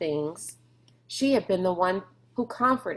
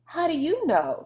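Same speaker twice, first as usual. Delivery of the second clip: challenging question; 10 semitones higher than usual. A narrator's reading. Sistine challenging Rob.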